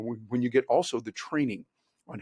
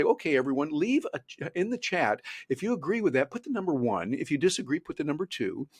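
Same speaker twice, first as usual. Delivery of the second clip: presenter engaging audience; 2 semitones higher than usual. Shown as a demonstration. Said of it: "so you can say".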